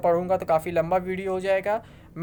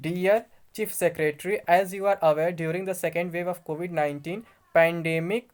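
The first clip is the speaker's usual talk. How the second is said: slow, formal reading of an official letter; much slower than usual. Acted. Vlogger reads the home secretary's letter to viewers, slow formal reading. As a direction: read the official notice word by word.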